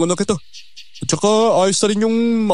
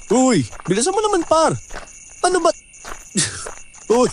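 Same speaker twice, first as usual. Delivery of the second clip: put-on drunk; 5 semitones higher than usual. Drunk friend rambling near canal.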